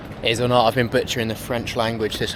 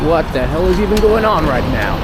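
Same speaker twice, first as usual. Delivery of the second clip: surprised; 6 semitones higher, 5 dB louder than usual. Real, not acted. Sudden strange sight in street.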